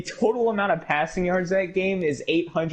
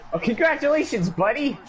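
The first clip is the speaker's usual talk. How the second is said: sarcastic; 9 semitones higher than usual. Real, not acted. Mocking opponent's luck.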